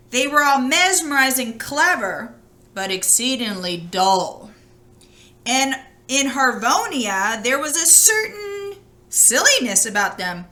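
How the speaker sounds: lively read-aloud voice for a fairy tale; storybook reading. A narrator's reading. Reading a fairy tale to children, in a lively storytelling voice. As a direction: tell it like a bedtime story to children.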